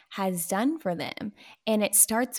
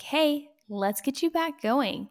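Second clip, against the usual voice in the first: higher-pitched mentor's pep talk; encouraging; 6 semitones higher than usual. Retold or imitated. Mentor to a sidetracked stylist, encouraging. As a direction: coax them back into action.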